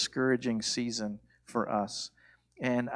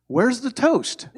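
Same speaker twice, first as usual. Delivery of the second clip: high, loud and slow, breaking into laughter; laughing punchline; 11 semitones higher, 9 dB louder, slower than usual. Acted. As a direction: deliver the punchline cracking up.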